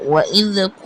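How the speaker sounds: long-held vowel on "ক"; measured elongation. Shown as a demonstration. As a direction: stretch "ক" at the end by a measured amount. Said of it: "এভাবে".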